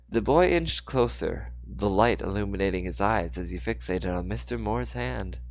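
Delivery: phrase-by-phrase storyteller read, strong openings; story narration. A narrator's reading. Narrator telling of Mister Moore's fall, story narration. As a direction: narrate the action with deliberate pauses.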